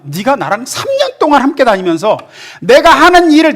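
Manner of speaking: a hint of gentle reproach; Jesus rebuking. Jesus answering Philip's request, mildly reproachful.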